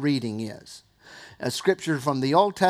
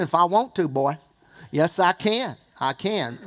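Southern accent. Shown as a demonstration. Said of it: "I can put on Southern ... Southern accent".

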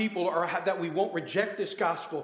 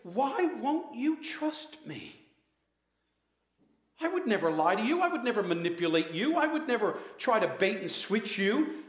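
pleading Jesus; 2 semitones higher than usual. Acted. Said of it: "And he says".

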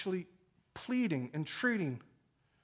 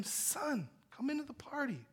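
softly coaxing son; tender; 8 semitones higher, 5 dB quieter than usual. Acted. Father tenderly calling his son to the party. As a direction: gently invite him in. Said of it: "there's affection".

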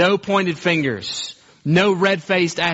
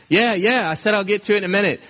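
higher, rushed, impatient yeah yeah; irritated brush-off; 5 semitones higher, faster than usual. Acted. Husband on the sofa brushing off his wife, impatient and rushed. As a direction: wave her off fast, annoyed.

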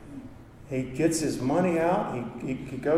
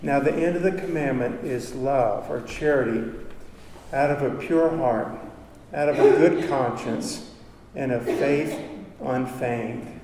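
scripture reading. Acted. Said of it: "close with this scripture".

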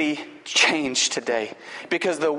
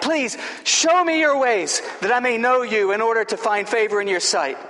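higher, earnest pleading prayer; Moses praying; 5 semitones higher than usual. Acted. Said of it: "Moses said to the Lord".

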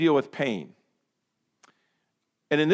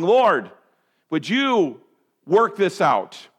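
slow, pleading plea to the Lord; pleading prayer; 4 dB louder, much slower than usual. Retold or imitated. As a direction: beg the Lord gently, drawn out. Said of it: "and going".

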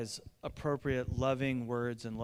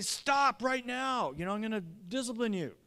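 mock stern scolding; 6 semitones higher than usual. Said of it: "I just wanna be".

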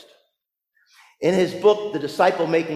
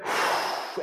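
demonstrated steadying exhale; anticipatory sigh; 6 dB quieter than usual. Shown as a demonstration. Preacher imitates basketball player preparing a free throw, anticipatory sigh. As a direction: act a player's breath out before the shot. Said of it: "sigh of anticipation, like when a basketball player".

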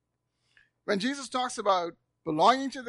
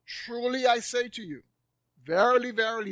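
raised, weighty solemn pronouncement; solemn declaration; 4 semitones higher, 3 dB louder than usual. Retold or imitated. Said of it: "He says it solemnly".

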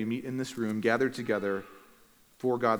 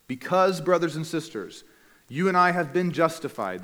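higher, emphatic reading with deliberate pauses; measured, raised-voice Bible reading; slow scripture reading; 5 semitones higher, 5 dB louder than usual. Real, not acted. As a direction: read the verse out strongly, phrase by phrase. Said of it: "I'll read it slowly".

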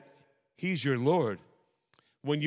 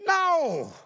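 emphatic no; 5 dB louder than usual. Acted. Rejecting urging people to church.

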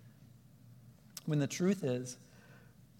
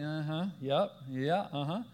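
distracted. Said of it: "and we're like".

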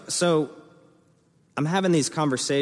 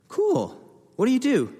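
squeaky high, louder cool; over-eager; 5 dB louder than usual. Retold or imitated. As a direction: gush at the stranger. Retold excited wedding small talk.

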